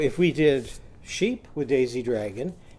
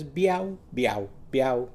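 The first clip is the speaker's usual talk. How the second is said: mock kitten meow; slower than usual. Shown as a demonstration. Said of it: "Barnaby's kitten, she says".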